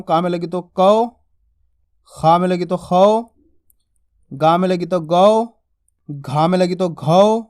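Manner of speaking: slow syllable drill, each au drawn out and rising; measured teacher drill landing on a long au; pronunciation drill. Shown as a demonstration. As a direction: chant each rule slowly, stretching the final au in कौ, खौ, गौ. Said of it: "अच्छे से आप इसका उच्चारण करना सीखना".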